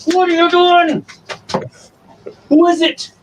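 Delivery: very high, teasing what-are-you-doing; high pet talk. Real, not acted.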